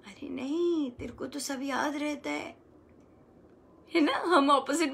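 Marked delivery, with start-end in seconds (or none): 0.1-2.6 reassuring. Shown as a demonstration. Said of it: "कैसे बोलना है?".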